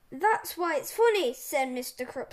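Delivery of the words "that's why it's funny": loud, snarled retort. A narrator's reading. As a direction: throw it back at the boys with a touch of a snarl.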